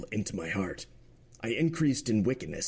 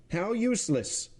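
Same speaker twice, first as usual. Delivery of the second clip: much higher, sharp outcry; president cries out; 11 semitones higher than usual. Acted. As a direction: cry out in disbelief, higher. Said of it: "cried the president".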